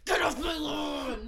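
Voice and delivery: mock grumpy shout. Mocking the new homeowner's aggression.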